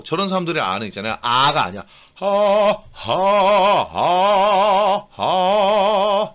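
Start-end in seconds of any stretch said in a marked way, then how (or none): 2.1-6.3 louder breathy "하" sounds; breathy pressure demo. Shown as a demonstration. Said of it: "이미 깊어". (압력으로 내는 깊은 "하" 시범)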